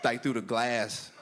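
drawn-out, halting disbelief, very slow. Retold or imitated. Customer repeating the teller's words back, slow and incredulous. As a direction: spell it out slowly as if it can't be true.

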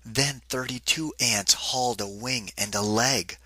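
even, lilting storybook read; reading to children. A narrator's reading. Narrator reading a picnic rhyme to kids, lilting storybook voice. Reads picture book aloud.

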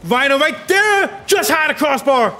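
lively high play-by-play; excited near-miss call. Real, not acted. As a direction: call a chance just going begging. Live call of a near goal.

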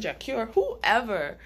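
ordinary talk, nothing marked

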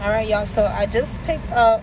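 talking with something in mouth; words round a mouthful; mouth full. Real, not acted. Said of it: "I got something in my mouth".

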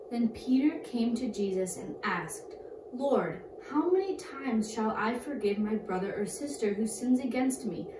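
clear, loud Bible reading voice; scripture reading. Acted. Girl reads scripture to kids, loud and clear. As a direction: read the verses out to the class.

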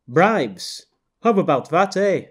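mock the eh, playful; mocking Canadian. Woman character mocks accent.

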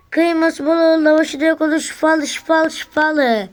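high sing-song hawking cry; melodic street vendor shout. Acted. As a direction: chant it like a market seller.

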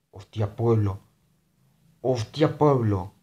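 exclamación fuerte de alegría; emocionado. Real, not acted. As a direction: grita feliz al ver el pueblo. Descubre un pueblo. (exclamación emocionada)

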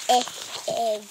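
short E in "e, egg", as in egg; short vowel demo. Shown as a demonstration. Child teacher showing viewers the letter sounds, short vowel demo. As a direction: say "e" short and separate before "egg". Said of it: "E makes the short sound".

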